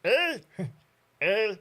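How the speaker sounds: loud, rising mock Canadian eh. Vlogger jokes about Canadians saying eh, mock Canadian. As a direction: ham up the Canadian eh. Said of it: "like you go to Canada".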